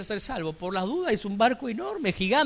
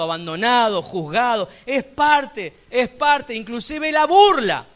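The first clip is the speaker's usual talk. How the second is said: loud, insistent preacher's list building to a peak; impassioned preaching; 5 semitones higher, 6 dB louder than usual. Real, not acted. Preacher telling the congregation rejection is part of the calling, forceful. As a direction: drive each item home forcefully.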